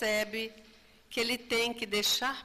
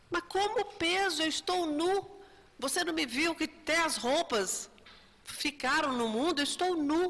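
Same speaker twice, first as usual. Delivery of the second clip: indignant; 6 semitones higher than usual. Retold or imitated. Spirit protests he is naked.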